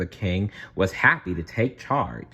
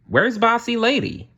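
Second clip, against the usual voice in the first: much higher, louder squeaky mouse voice; squeaky mouse Gus; 3 dB louder than usual. A narrator's reading. Gus the mouse asking Cinderella where Prudence is, squeaky. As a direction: pipe up like a tiny mouse. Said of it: "asked Gus".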